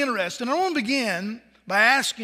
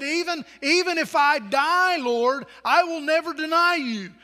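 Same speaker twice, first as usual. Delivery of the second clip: Peter's vow; 5 semitones higher than usual. Retold or imitated. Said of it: "Peter said".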